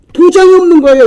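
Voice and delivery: high, loud repeat of the reveal; emphatic exclamation. Real, not acted. Preacher hammering home the missing seal, loud exclamation. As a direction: raise pitch and volume in disbelief.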